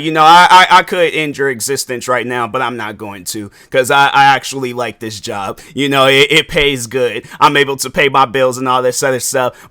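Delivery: low, level, calmly menacing; mock-calm menace, voice dropped low; calm low threat. Crazy coworker calmly threatens a critic, low and level.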